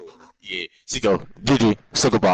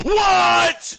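a sudden high, loud "What?"; stunned what; 11 semitones higher, 6 dB louder than usual. Real, not acted. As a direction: blurt it out in disbelief. Stunned reaction to game play.

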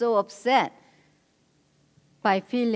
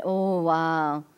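validating, understanding. Retold or imitated. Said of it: "When he said".

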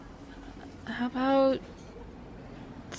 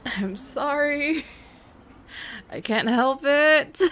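laughing apology; 5 semitones higher, 4 dB louder, slower than usual. Real, not acted. Giggling over nearly kissing.

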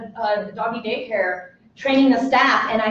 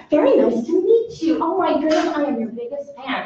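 gushing fan; 3 semitones higher than usual. Acted. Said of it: "you going up to somebody that you really respect".

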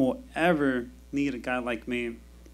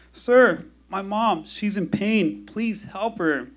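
put-on high, pleading child voice, slowing at the end; a scared kid tugging the firefighter's shirt; 4 semitones higher, slower than usual. Kid begs firefighter to help his mother, high and pleading.

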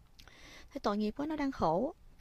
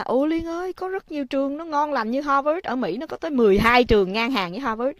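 retold friend; 5 semitones higher, 4 dB louder than usual. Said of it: "Thì Thuận mới nói là".

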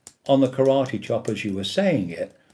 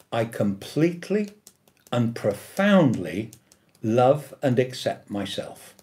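affirmation demo. Shown as a demonstration. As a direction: say it like a heartfelt affirmation. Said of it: "So I would say something like this".

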